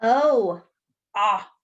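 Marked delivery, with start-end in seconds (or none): 1.2-1.5 "ah" as the open short o of okra's cousin hot; short o sound. Shown as a demonstration. Teacher sounding out the short O sound for kids. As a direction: open wide on "ah". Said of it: "O says ah".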